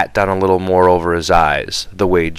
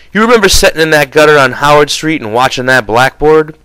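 louder, higher brusque lecturing; impatient George; 5 semitones higher, 3 dB louder, faster than usual. Acted. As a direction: brush off the rabbits and drill him. George scolds, then explains.

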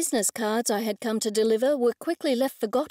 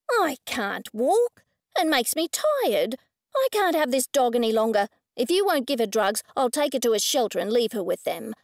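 whiny rude woman. Acted.

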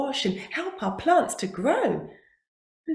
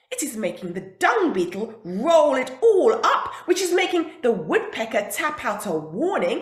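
exasperated Tiger voice; faster than usual. Acted. Tiger complaining to buffalo.

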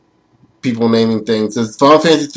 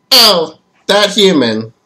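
drawn-out theatrical swooning; melodramatic lover; 5 semitones higher, much slower than usual. Acted. Game character spotting a true love, melodramatic. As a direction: swoon like a stage sweetheart, stretching the words.

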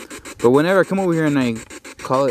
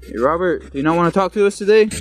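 calling out to a ghost; 5 semitones higher than usual. Real, not acted.

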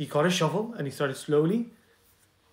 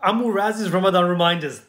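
louder, announcing the show name with flair; bold title announce; 5 dB louder than usual. Shown as a demonstration. Host redoes the show title, louder and announcing. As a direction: say the title like a presenter's hook. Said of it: "That's it. That's the one".

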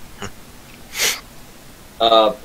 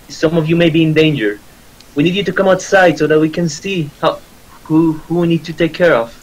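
raised, higher-pitched urgent appeal; half-yelled plea, pitched up; mild yell to townspeople; 4 semitones higher than usual. Acted. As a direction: plead with a crowd, voice lifted. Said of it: "And I just yell at them".

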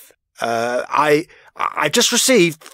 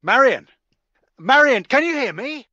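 higher, urgent call into the line; alarmed calling; 11 semitones higher than usual. Acted. News anchor calling the lost reporter, alarmed and higher. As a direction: reach for her as the feed drops.

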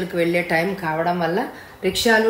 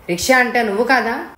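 higher-pitched, mildly angry question; angry retort; 5 semitones higher, 3 dB louder than usual. Acted. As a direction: snap back at the rickshaw puller. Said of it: "కోపంగా అన్నాడతను".

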